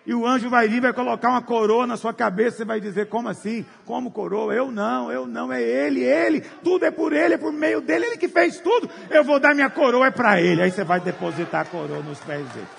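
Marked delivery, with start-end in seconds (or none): 3.1-10.6 higher, building to a loud shout; ardent protest. Acted. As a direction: refuse the crown, insisting it is his. Refusing the crown before God.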